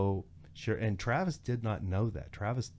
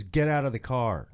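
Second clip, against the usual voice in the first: louder, forceful mock command; retold police order; 3 semitones higher, 5 dB louder than usual. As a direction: act out the cop demanding compliance. Deputy orders speaker out too.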